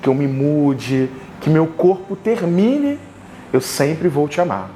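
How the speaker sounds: declamação de poema em frases curtas, com pausas; poesia improvisada. Real, not acted. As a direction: recite como um poema de amor, pausando entre os versos. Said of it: "através de uma poesia que eu vou improvisar". (declamação poética pausada)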